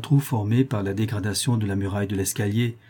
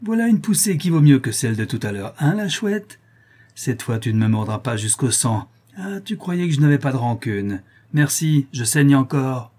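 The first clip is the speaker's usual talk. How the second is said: put-on vindictive boy, mostly pitched up; a hint of spiteful glee; lightly voiced gloating brat; 3 semitones higher, 3 dB louder than usual. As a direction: crow over your revenge. Tortillard gloats over his revenge.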